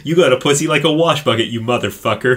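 mock angry insult. Husband insults his wife in a cheap film, mock angry. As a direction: sneer it like a bad porn actor. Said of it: "he says".

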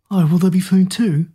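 eager, bouncy question; excited. Acted. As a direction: ask it with hungry excitement. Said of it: "An excited".

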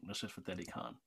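low, soft South Asian accent. Shown as a demonstration. Guest demonstrating the proper name, soft South Asian accent. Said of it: "say it with the accent".

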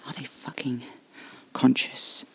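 threatening hushed interrogation; menacing whisper. Acted.

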